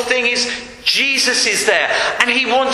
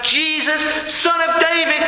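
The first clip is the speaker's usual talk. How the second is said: mildly raised cry to Jesus; calling out; 6 semitones higher than usual. Retold or imitated. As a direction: call out for his attention. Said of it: "when he calls out".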